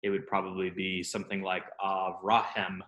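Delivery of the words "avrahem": Avrahem ending in "hem" instead of "ham"; changed final vowel. Shown as a demonstration. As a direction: stress the "ra" and end Avrahem on a short e. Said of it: "with hem instead of ham".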